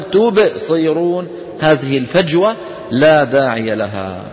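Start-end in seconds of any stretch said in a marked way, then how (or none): 0.0-1.3 تبصرون with a pause after the ب; gapped qalqala. Shown as a demonstration. Teacher shows the wrong gapped reading. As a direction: leave a gap after the ب in تبصرون. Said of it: "ولا نقول".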